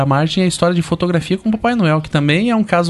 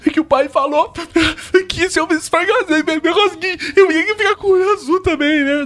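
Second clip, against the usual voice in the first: put-on high, innocent kid explaining; child voice; 9 semitones higher than usual. Boy telling grandma why he scrubbed, childlike. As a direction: explain like a naive little boy. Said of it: "eu me acalmei e falei".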